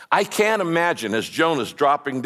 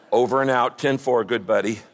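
perfunctory sign-off; 4 semitones lower than usual. Acted. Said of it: "God gets so bored with perfunctory prayers".

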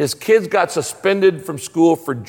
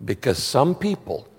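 a hammed-up God from heaven, low and amused; 6 semitones lower, 7 dB quieter than usual. God answers the man who cursed his luck, lower and softer with a laugh. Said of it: "he hears this voice from heaven that says".

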